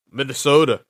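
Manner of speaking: put-on Minnesota with a Minnesota accent, flapped t. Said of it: "trying to do my best Minnesota accent".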